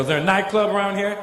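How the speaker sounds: put-on gangster voice. Comic asking the bouncer for the club, gangster voice. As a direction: ask it like a cool tough guy. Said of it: "I turn on my gangster".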